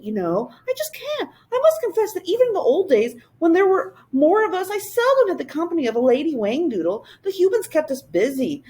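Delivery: high, quick and eager creature voice; a bouncy little creature popping in; high fluttery royal creature; Whangdoodle voice. Acted.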